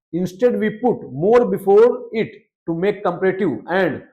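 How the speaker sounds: slow, careful rule reading; teacher reading a grammar rule to the class; reading rule aloud. Acted. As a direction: read each word of the rule deliberately. Reads English rule aloud.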